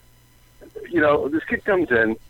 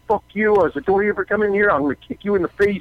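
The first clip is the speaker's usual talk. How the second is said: higher-pitched mock yell, not full volume; angry rant, retold with some restraint; retold screaming; 7 semitones higher, faster than usual. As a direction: re-enact snapping at a kid. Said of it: "I'm screaming at the kid".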